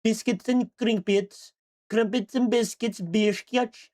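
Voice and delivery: mock British accent. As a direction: play a silly Brit fussing over tea. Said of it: "I'm British".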